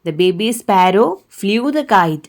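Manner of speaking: put-on very slow, every word laid out for children; teacher reading a storybook line to kids, slowly; slow story reading. Shown as a demonstration. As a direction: read it aloud slowly to little ones.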